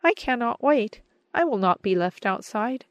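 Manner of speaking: high, loud happy outburst; happy cry. A narrator's reading. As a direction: burst in eagerly to join the hug. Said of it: "exclaimed with a happy cry".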